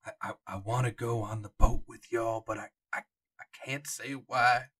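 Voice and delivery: lightly voiced old park docent, hesitant. Old docent telling the players what he cannot say, hesitant. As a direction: stammer like a guide who cannot say what he knows. GM voicing Jonah.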